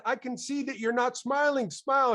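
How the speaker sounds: high teasing insistence; insisting. Retold or imitated. Speaker insisting the masked dentist smile, high teasing push. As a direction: tease him into smiling.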